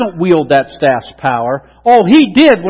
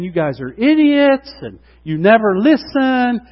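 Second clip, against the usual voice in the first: mean scolding; 5 semitones higher than usual. Retold or imitated. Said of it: "by being mean and saying".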